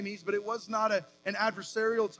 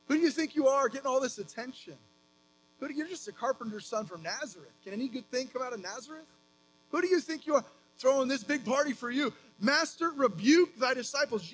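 indignant Pharisees; 3 semitones higher than usual. Retold or imitated. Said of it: "Basically, they said".

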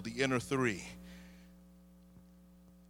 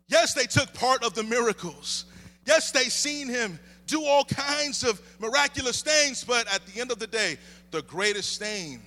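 measured, rhythmic sermon refrain; emphatic preaching; 5 semitones higher, 5 dB louder than usual. Real, not acted. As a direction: hammer each yes as a new point. Preaches at full force.

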